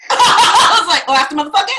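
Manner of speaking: can't hold the laugh in. Real, not acted. Telling the audience about therapy, laughing out loud.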